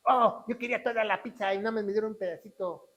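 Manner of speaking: quick hammed-up grumble, opening on a big "Oh"; mock complaint. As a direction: imitate someone fussing over a small portion.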